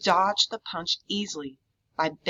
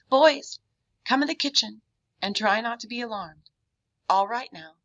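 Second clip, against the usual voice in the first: calm soothing; 5 semitones higher than usual. A narrator's reading. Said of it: "calm, soothing voice".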